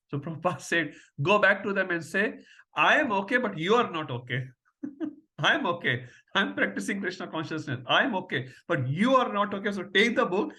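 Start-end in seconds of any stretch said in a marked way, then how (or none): 1.2-10.5 louder, higher, punchy retort; a triumphant teacher's loud comeback; emphatic guru retort. Retold or imitated. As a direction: deliver the master's comeback with relish. Guru retort quoted with glee.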